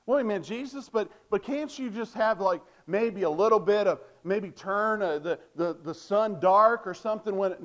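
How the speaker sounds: half-hearted mock of someone haggling with Jesus; bargaining believer. Mimics people bargaining with Jesus.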